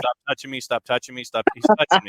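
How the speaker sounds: put-on loud whiny kid brother complaining; whiny tattling little sibling. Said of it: "like the older brother, younger brother kind of thing".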